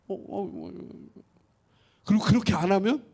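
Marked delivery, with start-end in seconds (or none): 0.1-0.7 softer, murmured mock sounds; a preacher mocking the soft-Jesus image, in soft coos; soft mock coddling. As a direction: coo it like a pampering Jesus.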